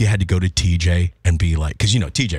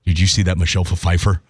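lower, laid-back dude voice; 4 semitones lower than usual. Retold or imitated. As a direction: play a laid-back guy pitching an idea. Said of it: "they're like".

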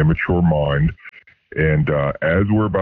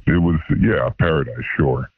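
sarcastic. Real, not acted.

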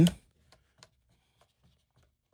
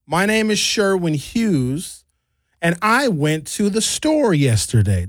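flat even American reading, pitch barely moving; monotone American; slower than usual. Shown as a demonstration. Demoing how Americans talk, monotone. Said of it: "That's how I would say it".

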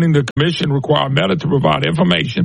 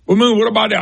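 lightly voiced questioner, pitched higher; acted questioner; 4 semitones higher, faster than usual. Listener questioning the host, lightly voiced questioner. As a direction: put a slightly higher voice on the questioner. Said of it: "And you start saying".

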